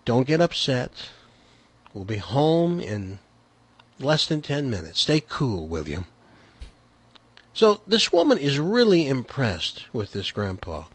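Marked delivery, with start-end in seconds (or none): 0.0-6.1 soft and calm, fading away at the end; relaxed, controlled voice. Retold or imitated. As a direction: stay cool and coax the kid quietly. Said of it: "in a very relaxed and controlled voice".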